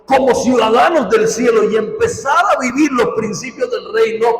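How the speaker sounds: pressing, declamatory sermon delivery; emphatic preaching. Real, not acted. Preacher urging congregation to empty themselves of dishonor, emphatic preaching. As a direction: preach it with firm, punched key words.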